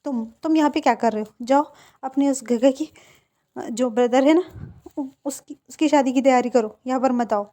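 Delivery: a touch of hot temper; angry. Acted. Wing snapping at his friend Neo Sen, mildly angry. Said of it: "उसे और भी ज़्यादा गुस्सा चढ़ता है".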